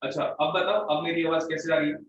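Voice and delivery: normal talking voice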